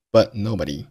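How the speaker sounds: but with its t swallowed before nobody; but nobody with no burst on the t; unreleased t. Shown as a demonstration. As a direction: stop the t of but silently, then nobody. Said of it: "But结尾的t失爆".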